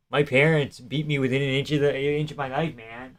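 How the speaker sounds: quiet, soft impression; soft mock Joe Pyfer. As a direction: mumble it as a fighter. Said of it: "I can't do Joe Pyfer".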